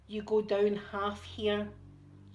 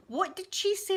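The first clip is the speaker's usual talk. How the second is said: higher, louder voice shouting from another room; dad calling from background; 11 semitones higher, 4 dB louder than usual. Retold or imitated. Dad shouting from the background to ask, higher and louder. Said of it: "I hear my dad in the background going".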